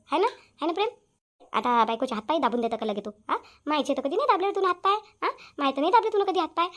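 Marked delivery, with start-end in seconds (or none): 3.3-6.7 indignant scolding. Acted. Mother scolds son.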